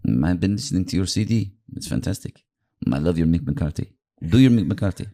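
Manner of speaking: lightly accented manager impression; Mourinho. Manager asks the comic for an impression, lightly imitated accent. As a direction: admire the CD, then request the act. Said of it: "and he went".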